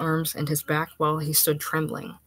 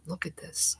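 barely above a whisper; 9 dB quieter than usual. A narrator's reading. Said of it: "barely above a whisper".

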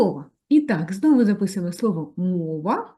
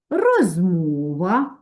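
slow dictation; much slower than usual. Shown as a demonstration. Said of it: "Ще".

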